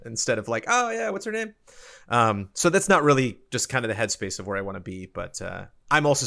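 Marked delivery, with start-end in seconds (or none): 0.7-1.5 mock vague recall. Mimicking distracted viewer's thought.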